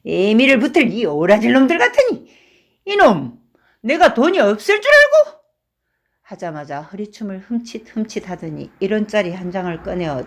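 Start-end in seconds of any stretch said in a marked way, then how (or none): 0.0-5.4 put-on loud, rising drunken fury; flaring up. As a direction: blow up at them all. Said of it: "화를 버럭 내며".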